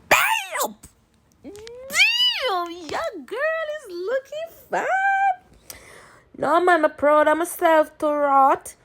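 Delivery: Jamaican patois, high and excited; Jamaican accent. Real, not acted. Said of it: "I have to drop in my Jamaican accent".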